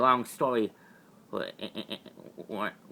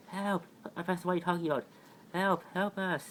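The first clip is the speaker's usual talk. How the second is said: panicked cry; 7 semitones higher than usual. Acted. Sinking in quicksand, calling out.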